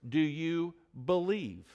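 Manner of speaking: "believe" set apart after a short pause; pause, then weight the word "believe"; stress on believe. Shown as a demonstration. Preacher puts Jesus' question to hearers, stressing "believe". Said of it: "inflection and emphasis on the word believe".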